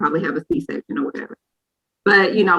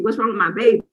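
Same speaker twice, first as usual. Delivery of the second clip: the plea repeated, dropping back down; fading panic; 3 semitones higher, faster than usual. Retold or imitated. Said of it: "now I'm crying".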